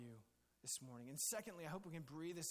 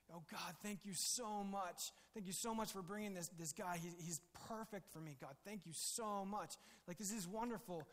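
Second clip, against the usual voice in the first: gushing gratitude; 2 semitones higher than usual. Pretend. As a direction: pour it out like an overjoyed bride. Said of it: "it would have been like".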